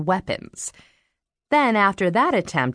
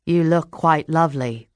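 smooth English charmer's compliment, with an audible smile; a lightly voiced suave gentleman, teasing; devilish smile. A narrator's reading. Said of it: "with that devilish smile".

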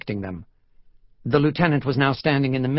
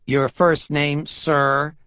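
raised-pitch, insistent police questioning; sharp official demand; said more sharply; 4 semitones higher, 4 dB louder, much slower than usual. Acted. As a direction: demand an answer from an evasive man. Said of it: "more sharply".

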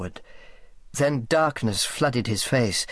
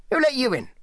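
much higher, blustering question; demanding; 12 semitones higher, faster than usual. A narrator's reading. Selby challenges Sally about getting in, demanding. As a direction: challenge an unwelcome visitor. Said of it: "he demanded".

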